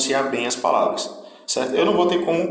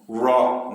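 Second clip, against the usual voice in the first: "ro" alone, drawn out with weight; isolated stressed syllable. Shown as a demonstration. Teacher isolating the strong middle syllable, ro stressed. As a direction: give "ro" the force of a stressed syllable. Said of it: "tem mais força".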